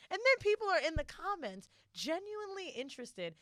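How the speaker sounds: normal talking voice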